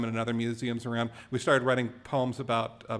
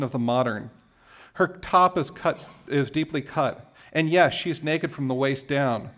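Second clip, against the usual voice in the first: measured, emphatic poetry recital; poem reading; 4 dB louder than usual. Acted. Poet reads Hopper poem to a crowd, measured recital. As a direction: recite it phrase by phrase, leaning on key words.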